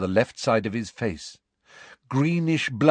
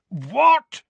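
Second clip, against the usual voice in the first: loud, high exclamation; shocked; 7 dB louder than usual. A narrator's reading. Hagrid hearing Harry was expelled, shocked. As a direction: burst out in shock.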